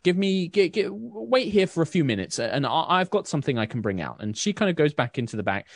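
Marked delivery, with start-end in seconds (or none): 0.0-4.2 higher, gossipy shopkeeper voice; chatty baker. Acted. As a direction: baker gossips to the Baroness about soldiers, higher. Susan insists, no charge.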